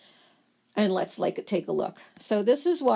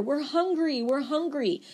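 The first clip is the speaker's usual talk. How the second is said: yelling cells; 5 semitones higher than usual. Acted. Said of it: "It's getting louder and louder".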